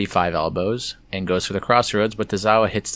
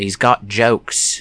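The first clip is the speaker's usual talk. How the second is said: clumsy, bad, put-on Australian accent; 4 dB louder than usual. Recapping a fighter's comeback, quoting him in a bad Australian accent. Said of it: "that was a bad Australian accent. ... No, that's even worse".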